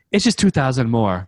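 lightly voiced dealer easing out bad news; sheepish dealer. Dealer admits the price went up, lightly voiced as sheepish. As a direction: slip it in casually, like a retold salesman.

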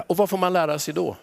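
ordinary delivery

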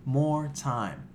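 slow, deliberate vow to himself; inner tough guy. Retold or imitated. Retelling his camp self-talk before the punch, slow and determined. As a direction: lay out the threat slowly, like an action hero. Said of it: "I was like".

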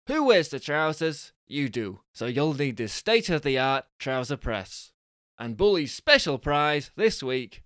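lively prize-reveal patter; punchy announcer read, easing after the first phrase; game show prize announcer. Acted. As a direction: sell the prizes with showy cheer.

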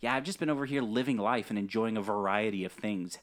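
mock-enthusiastic dodge; sarcastic. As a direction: gush with fake cheer about other games. Sarcastic dodge about playing Overwatch.

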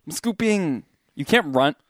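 high, loud hammy yell; high shouted mock. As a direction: shout it squeaky. Acted chase scene.

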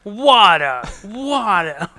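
loud, high repeated mock cries; Helen Keller role. Acting out Helen Keller learning by feel, loud mock cry. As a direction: call each one out, drawn from the gut. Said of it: "Helen Keller style".

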